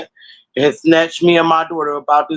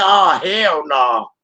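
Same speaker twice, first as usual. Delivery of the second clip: exasperated shout; much slower than usual. Retold or imitated. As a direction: drag it out in a yell. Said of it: "I said".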